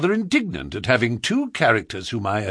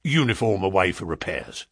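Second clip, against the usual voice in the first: stiff barking toy soldier; 4 semitones lower than usual. A narrator's reading. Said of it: "he said gruffly".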